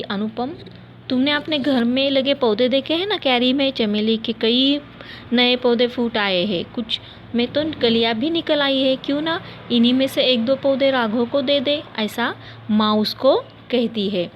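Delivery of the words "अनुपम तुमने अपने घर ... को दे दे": lovingly. Acted. Mother lovingly suggesting a gift for Raghav, tender. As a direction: coax gently like a loving mother. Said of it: "फिर प्यार से बोली".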